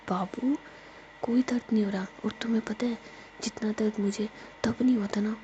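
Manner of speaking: put-on breathy whisper, soothing a crying girlfriend; whispered comfort. Jiya whispers comfort to crying Ruhi. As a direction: hush her tears in a whisper.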